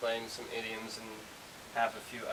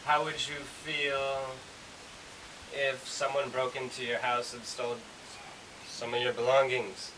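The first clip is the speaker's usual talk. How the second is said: example sentence. Shown as a demonstration. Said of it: "is supposed to be followed by another statement".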